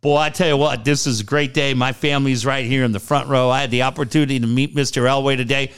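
lightly voiced gushing new coach; a hint of an overeager press conference; mock rah-rah speech. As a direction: play the grateful eager hire, mildly hammed. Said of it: "Ryan Rah Rah".

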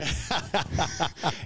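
a real burst of laughter. Real, not acted. Golfer laughing at the club's shirt rule, real laugh. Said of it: "I just started laughing".

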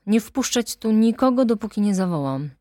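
commanding. Acted. Orders the servant.

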